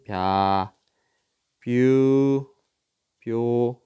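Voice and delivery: 벼, 뷰, 뷰 each drawn out evenly, bya, byu, byo; syllable demonstration. Shown as a demonstration. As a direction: model 벼, 뷰, 뷰 as separate long syllables. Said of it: "이렇게 됐습니다".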